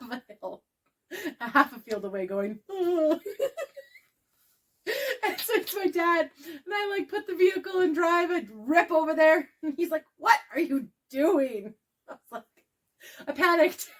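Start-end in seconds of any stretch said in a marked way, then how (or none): 2.7-3.2 drawn-out, higher "oh"; a high, long "oh" with a laugh behind it; imitated distant moan. Imitating dad going "oh" from half a field away, long high call. 10.2-11.7 slow, stretched mock question; drawn-out disbelief. Dad confronts her as she drives up, slow incredulous mimicry. Imitates dad's baffled challenge.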